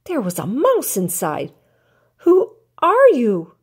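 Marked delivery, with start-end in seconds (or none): 2.2-3.5 higher, slow, wary question; a touch of fright in a small voice; a little frightened. A narrator's reading. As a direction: ask it timidly, unsure who's there. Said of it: "a little frightened".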